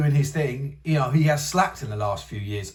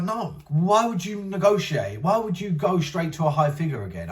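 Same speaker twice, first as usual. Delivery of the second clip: imitating Dana White; 4 semitones higher than usual. Vlogger imitating Dana White turning down the high demand incredulously. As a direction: play the boss who can't believe the ask. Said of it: "And now Dana's like".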